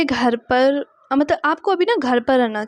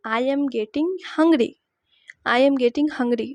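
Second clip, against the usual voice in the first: very slow, each word spaced for learners; slow dictation; much slower than usual. Shown as a demonstration. Teacher modelling a sentence for students, very slow. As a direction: spell it out slowly so students can copy. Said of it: "तो आप बोलोगे".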